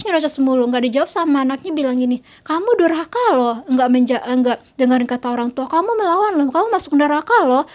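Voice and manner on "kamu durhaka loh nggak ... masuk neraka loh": nagging mother. Retold or imitated. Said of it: "ibunya nyerocos".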